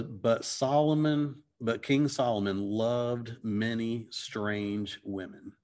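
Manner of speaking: slow, deliberate reading of the verse; slowly reading the verse aloud; slow scripture reading. Shown as a demonstration. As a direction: read it out word by word, slowly. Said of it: "and it says".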